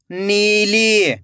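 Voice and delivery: नीली joined as one slow word; blended word. Shown as a demonstration. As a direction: read नीली whole, falling at the end. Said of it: "खींच के पढ़ना है".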